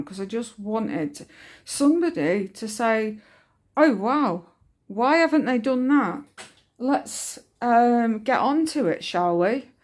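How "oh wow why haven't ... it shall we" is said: mock eager. Wished-for supportive reply, acted out.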